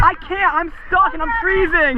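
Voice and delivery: high pleading cry; stuck and cold. Real, not acted.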